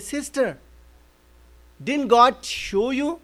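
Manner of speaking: emphatic, pressing questions and assurances; firm remonstrance. Retold or imitated. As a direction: reason firmly with a grieving mother, voice lifted. Pastor confronting the grieving mother.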